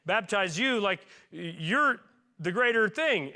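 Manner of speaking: high, insistent no, then slowing; urgent refusal that slows into awe; John refusing to baptize Jesus, high insistent protest. Acted. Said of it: "and John goes".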